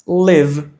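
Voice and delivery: "live" with an open eh-like vowel; short-i pronunciation. Shown as a demonstration. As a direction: say "live" close to "lev". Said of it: "a letra I tem som de E".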